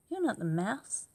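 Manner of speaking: loud. Acted. Child confronts fox.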